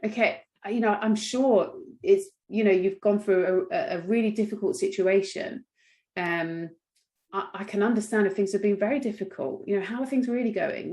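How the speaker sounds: a clinician gently inviting a patient to talk; gentle prompting. Shown as a demonstration. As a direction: coax them to open up kindly. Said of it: "we need to prompt".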